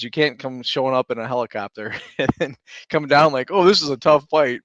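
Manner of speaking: mock her easy arrival, sarcastic; mocking sarcasm. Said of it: "I was in the trenches".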